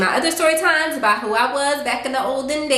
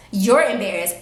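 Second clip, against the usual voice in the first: falling, flat "You're embarrassed."; flat sarcastic echo. Retold or imitated. To her date, dry sarcastic echo. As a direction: repeat it dryly back at him.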